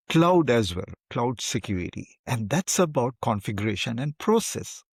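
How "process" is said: "process" lifted higher for emphasis; stress on process. Real, not acted. Interviewer underlining cloud security's key word, stress on "process". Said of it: "I'd like to underline the word process".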